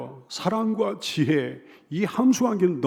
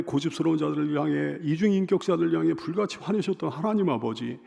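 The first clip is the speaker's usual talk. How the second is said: ordinary talk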